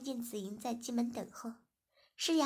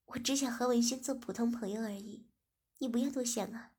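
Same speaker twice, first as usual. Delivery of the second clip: smiling. Acted. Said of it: "子英听后便微笑着说".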